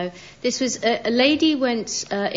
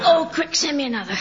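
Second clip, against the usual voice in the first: fast, laughing request; giggling through the words; 6 semitones higher, faster than usual. Real, not acted. Laughing at vibrating phone.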